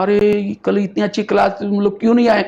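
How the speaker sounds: lightly acted querying sisters; questioning sisters. Acts out sisters questioning absentees.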